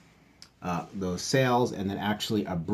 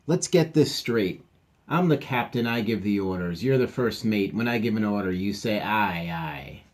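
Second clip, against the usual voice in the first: bossy captain. Acted. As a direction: lay down the rules to your first mate.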